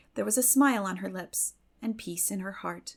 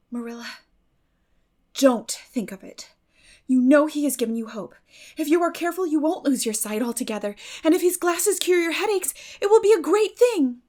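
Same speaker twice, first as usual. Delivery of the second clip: brave with a catch; 7 semitones higher, 8 dB louder than usual. A narrator's reading. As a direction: push through the catch into eager hope. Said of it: "she said bravely, but with a catch in her voice".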